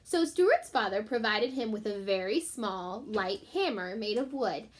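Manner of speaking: put-on gentle read-aloud for children; story reading. A narrator's reading. Teacher reading a chapter to her class, storytelling voice.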